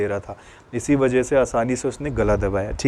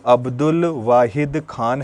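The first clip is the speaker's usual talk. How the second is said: slow dictation; slower than usual. Shown as a demonstration. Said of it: "क्या बोलोगे?".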